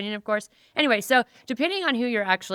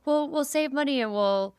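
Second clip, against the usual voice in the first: higher-pitched imitation of a sitcom man; Schmidt; 6 semitones higher, 3 dB louder than usual. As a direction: put on his voice, higher, saying CUP-pons. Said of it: "And he goes".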